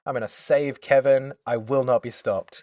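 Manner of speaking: mock heroic defiance, pumped up; bravado. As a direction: throw it in her face, fearless. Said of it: "full, like, bravado".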